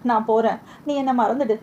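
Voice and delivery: a touch of tears, understated and fading; mildly tearful farewell to Rukmani; crying. Acted. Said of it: "என்று அழுந்தான்". (லேசான அழுகைக் குரல்)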